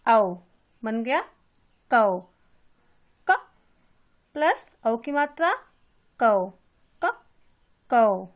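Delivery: teacher drilling कौ; au syllable demo. Shown as a demonstration. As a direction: hammer out कौ for the class. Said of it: "इसमें औ की ध्वनि निकल रही है".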